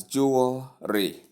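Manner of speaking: "jewelry" as JOO-ul-ree; correct pronunciation. Shown as a demonstration. Teacher models jewelry for learners, correct pronunciation. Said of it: "You should say it smoothly".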